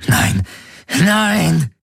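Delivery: very high, anguished nein; anguished cry. A narrator's reading. Galen fights the possessor in pain, high anguished cry. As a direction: cry out in agony.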